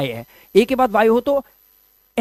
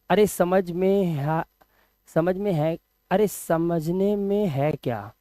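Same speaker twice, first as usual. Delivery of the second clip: muttering softly, let down and slow; deflated mutter; 4 semitones lower, 10 dB quieter, slower than usual. Real, not acted. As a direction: sigh it out, hurt by the comment. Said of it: "dejected muttering". (धीमी, निराश बुदबुदाहट)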